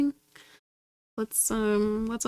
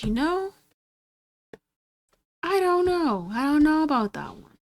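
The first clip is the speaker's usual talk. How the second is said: voicing the game; 6 semitones higher than usual. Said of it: "all of a sudden it said".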